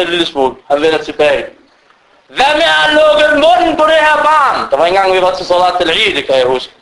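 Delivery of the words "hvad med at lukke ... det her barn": irritated complaint. Retold or imitated. Man complains about noisy child.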